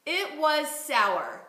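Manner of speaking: "It was sour" again very slowly, word by word; slow repeated model phrase. Shown as a demonstration. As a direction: echo the model slowly and evenly. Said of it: "let's say".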